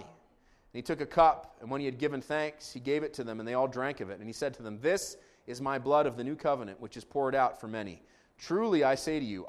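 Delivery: measured, formal Bible reading; scripture reading. Real, not acted. Pastor reading Mark fourteen to congregation, scripture reading. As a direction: read the narrative out phrase by phrase.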